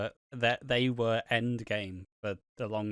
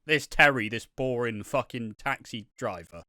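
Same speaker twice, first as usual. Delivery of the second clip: mocking his friend; 4 dB louder than usual. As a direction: whine it like an overinvested fan. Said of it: "you're saying it like".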